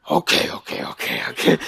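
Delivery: soft unvoiced resigned okays; reluctant old man. Larry King giving in to a pushy fan, quiet resigned okays. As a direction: give in wearily under your breath.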